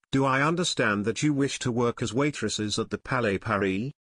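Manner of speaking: put-on understated French accent. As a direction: suave manager, light French accent. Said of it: "The manager spoke with a French accent".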